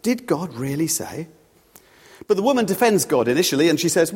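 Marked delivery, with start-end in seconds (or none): 0.0-1.3 slow, lingering doubtful question; lightly acted insinuation; sowing doubt. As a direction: draw it out to plant uncertainty. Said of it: "tries to sow doubt and uncertainty".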